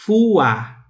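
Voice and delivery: fuá stretched as fu-á; two-syllable fuá. Shown as a demonstration. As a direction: draw fuá out into two beats. (fuá alongado, fu-á)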